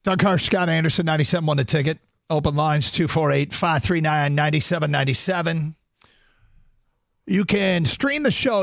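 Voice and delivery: upbeat station plug; radio announcer voice; radio host promo read. Acted. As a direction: sell the stream like an announcer. Radio show open lines promo.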